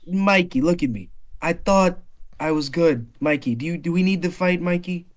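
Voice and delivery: put-on slurring drunk New Yorker; sway through the words like a drunk. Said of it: "he's drunk".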